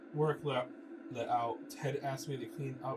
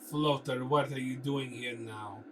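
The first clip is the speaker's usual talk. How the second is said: put-on Russian accent; slower than usual. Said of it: "painted thickly with a Russian accent".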